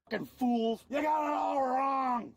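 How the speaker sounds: ranting shout; angry shouting. Real, not acted. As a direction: yell it at them furiously. Arrestee yelling in the car.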